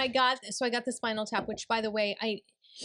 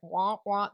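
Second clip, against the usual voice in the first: Peanuts adult voice; 2 semitones lower than usual. Retold or imitated. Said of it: "kinda like the Peanuts where it's like".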